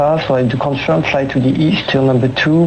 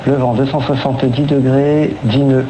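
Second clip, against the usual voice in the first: air traffic control radio. Real, not acted. Controller speaking over cockpit radio.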